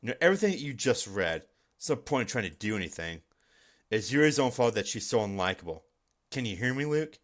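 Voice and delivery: a hint of a chilling classmate speaking straight to the player; Monica. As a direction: turn suddenly aloof and eerie. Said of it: "that sounds like Monica".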